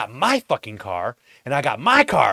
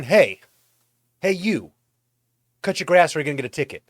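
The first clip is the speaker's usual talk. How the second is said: polite city notice; 4 semitones higher, 4 dB louder than usual. Retold or imitated. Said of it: "instead of saying".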